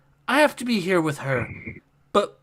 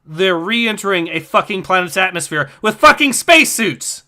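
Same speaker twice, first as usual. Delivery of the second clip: exasperated outburst; 6 dB louder than usual. Real, not acted. Exasperated at game plot.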